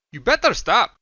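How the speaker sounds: shouted threat. A narrator's reading. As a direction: warn her off. Son shielding father.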